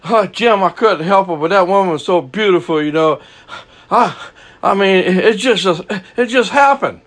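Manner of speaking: high mock whine of a guilty husband; imitated husband whining his excuses to the preacher; sheepish cheating husband. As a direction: play the excuse-making husband, pleading. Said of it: "counseling a husband and his wife".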